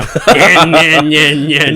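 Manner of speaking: laughing mock buzz of clippers; imitated clipper buzz. Telling friends how he cut his hair, laughing buzz. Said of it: "clipper noise imitation".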